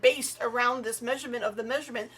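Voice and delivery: high, loud mock exasperation; exasperated questioning. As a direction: rattle it off, incredulous at the absurdity. Acts out exasperated questioning about metrics.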